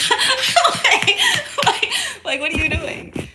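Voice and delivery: high, laughing mock baby voice; laughing baby imitation. Mother laughing as she voices the baby's confused stare. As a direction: giggle through the baby's question. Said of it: "the baby looking at you like".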